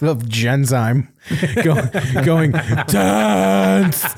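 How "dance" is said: cartoon lady voice. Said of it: "used to quote that episode".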